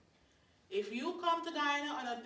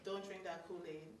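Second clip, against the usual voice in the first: mock warning; 5 semitones lower, 8 dB quieter than usual. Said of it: "you say".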